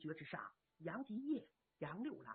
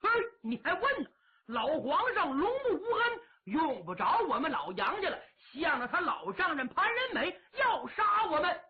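quick, bitter and raised, spitting out the grievance; a young general ranting at the prince, higher and fast; resentful young warrior, voice pitched up; indignant outburst; 3 semitones higher than usual. Acted. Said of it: "七郎喊上了".

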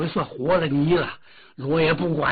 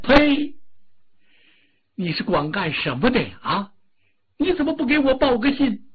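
angry spit; 7 semitones higher than usual. Acted. The Dragon King scolds the Earth God in contempt. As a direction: spit your scorn at him.

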